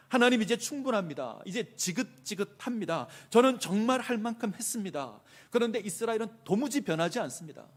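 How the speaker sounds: high, loud fed-up complaint to God. Acted. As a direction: protest that you have had enough. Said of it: "지긋지긋하다라는 뜻도 있습니다".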